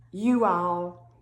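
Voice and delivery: "you all" as two full words; dialect "you all". Shown as a demonstration. Showing another holler's word, two-word "you all". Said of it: "Another holler would say you all".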